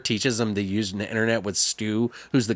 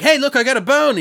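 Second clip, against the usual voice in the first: high, louder playful tease; teasing; 11 semitones higher, 4 dB louder, faster than usual. Retold or imitated. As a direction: wave the bone like bait. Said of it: "he's like".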